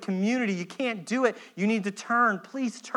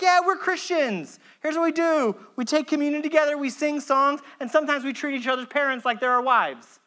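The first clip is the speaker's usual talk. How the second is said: breezy church members; 5 semitones higher than usual. Pretend. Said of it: "they're like".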